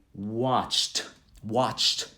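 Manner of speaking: WATCHED slowly, one syllable ending ch-t. Shown as a demonstration. Teacher modelling yesterday's form, t ending. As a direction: close WATCHED on a crisp t. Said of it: "Sounds like a T on the end".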